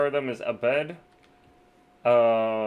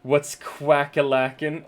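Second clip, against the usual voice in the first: silly duck voice; 3 semitones higher, 5 dB louder, slower than usual. Acted. Greeting a duck player.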